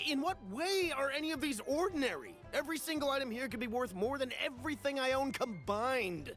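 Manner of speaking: worked-up, incredulous haggling; indignant protest. Acted. Buyer disputes the seller's claim.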